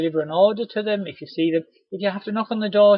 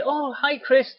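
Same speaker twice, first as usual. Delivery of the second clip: high, surprised little hi; surprised customer; 10 semitones higher, 3 dB louder, slower than usual. Retold or imitated. Customer suddenly recognising the rep, surprised. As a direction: sound caught off guard, then friendly.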